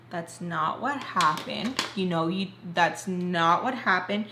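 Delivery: slow, deliberate stress on "not what happened"; insistent denial. Retold or imitated. Teller replays contradicting him on the phone, insistent denial. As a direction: retell a firm, measured contradiction. Acted quarrel, firmly denying his version.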